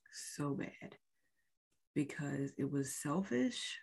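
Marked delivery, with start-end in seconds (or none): 0.1-1.0 barely voiced, much softer, the words almost breathed; letting the hurt drain the voice out; real hurt. Real, not acted. Telling viewers how his words hurt, nearly voiceless. Recalling husband's hurtful words.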